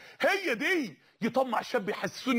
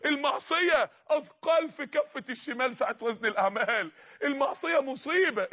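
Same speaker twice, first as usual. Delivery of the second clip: fiery preaching. Real, not acted. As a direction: pound each line like a warning. Preaching at full force.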